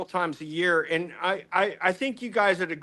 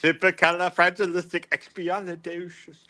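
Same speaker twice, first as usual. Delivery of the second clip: badly faked musical English accent; Dick Van Dyke English accent. Shown as a demonstration. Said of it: "he does a Dick Van Dyke English accent".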